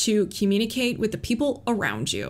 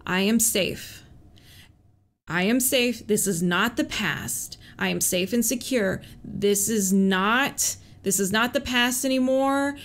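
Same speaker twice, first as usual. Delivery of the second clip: calming self-talk. Shown as a demonstration. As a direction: talk yourself down gently. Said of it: "I would just repeat".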